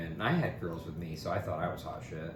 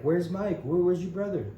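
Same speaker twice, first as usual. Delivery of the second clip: curious asker; 9 semitones higher, 5 dB louder than usual. Retold or imitated. People asking after his friend.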